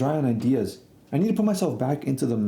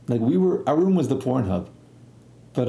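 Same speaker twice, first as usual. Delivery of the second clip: usual speaking voice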